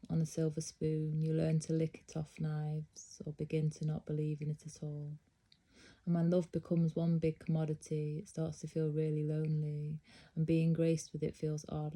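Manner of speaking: measured, even-toned poetry reading; poem recitation. Acted. Host reciting a poem to viewers, measured poetry reading. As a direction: read the poem aloud with steady, lingering phrasing.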